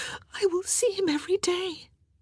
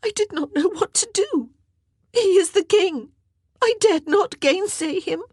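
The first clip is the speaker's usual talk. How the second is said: high, tearful, gasping account; distraught crying voice, pitched very high; sobbing confession; 13 semitones higher, 5 dB louder than usual. A narrator's reading. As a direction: tell it through sobs, breaking for breath. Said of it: "she whispered through her sobs".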